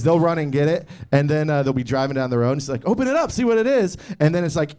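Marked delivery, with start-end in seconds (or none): 2.9-4.0 put-on higher-pitched mom urging a kid; lightly put-on, higher voice of a mom; mock eager mom. Mom telling her kid to open the stolen package, mock eager.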